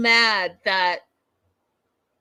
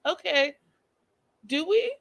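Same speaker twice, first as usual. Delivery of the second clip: puzzled; 6 semitones higher than usual. Retold or imitated. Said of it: "he's like".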